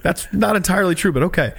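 polite retort, a touch of disbelief; wry reply. Retold or imitated. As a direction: humour him politely, pitch up. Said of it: "I was like".

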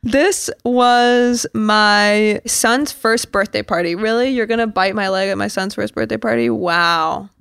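lightly voiced outrage at a bitten leg; mock offended, a hint of Housewife drama; indignant bitten guest. Bitten guest scolds the shark, mock indignant.

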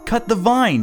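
high, loud urgent holler. Acted. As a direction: call out to Jack from the yard. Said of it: "she hollered".

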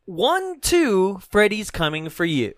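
creepy nursery rhyme. Acted. Reading creepy trailer line.

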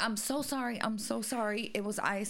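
lightly voiced flustered old woman; a hint of a sorry elderly cashier; apologetic old lady. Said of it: "she's like".

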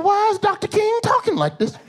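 high, incredulous outcry; shocked fan squeaking in disbelief; baffled high squeal. Retold or imitated. Fan realizing King actor is British, high incredulous squeal. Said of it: "I'm like".

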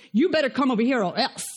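brisk mock-stern order; forced demand. Pastor mimics a forceful invitation, mock stern. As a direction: bark it like a threat you half mean. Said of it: "It's not a forced invitation".

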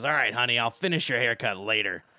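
brisk, loud shopkeeper in charge. Acted. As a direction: wrap up business and hand out orders. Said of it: "and she says".

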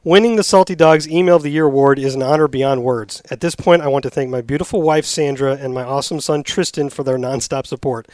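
lightly voiced award winner at a podium; hint of a thank-you speech; mock acceptance speech. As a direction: accept the award, a touch formal. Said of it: "acting like he's at a podium accepting the award".

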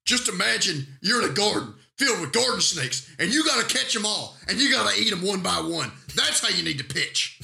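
mock eccentric coach. Mock pitching advice from eccentric coach.

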